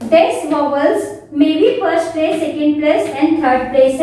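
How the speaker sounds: very slow, each word spaced out; slow dictation. Shown as a demonstration. Teacher dictating vowel places slowly to students. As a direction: read the list out slowly for copying.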